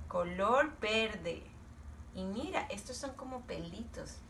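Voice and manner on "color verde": slow model. Shown as a demonstration. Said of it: "A ver, ¿quién me puede decir?".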